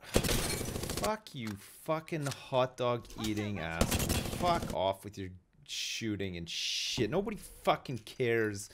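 raging gamer. Acted. Raging rant at other player.

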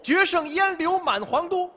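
high, slow recital voice; poem recitation. Acted. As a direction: declaim the verse grandly.

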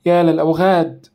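angry exclamation. A narrator's reading. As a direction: spit out the insult. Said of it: "هتفت نشوى".

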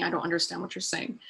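a mild flat phone-assistant impression; imitating Siri. Echoing Siri's reply, a soft quick robotic mock. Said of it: "Siri's saying".

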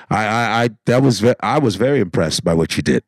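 a lightly voiced polite gentleman; formal black man voice. Shown as a demonstration. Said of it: "men that talk like this".

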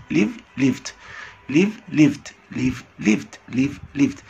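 ليف then ليفد ending in a voiced d; base and past. Shown as a demonstration. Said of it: "انتهت بحرف الفي".

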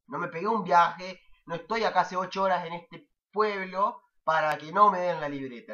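fed-up student demanding the report card; retold angry outburst. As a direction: push back hard, word by word. Retold angry reply to preceptor.

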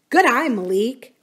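smiling. A narrator's reading. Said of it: "Corinne smiled".

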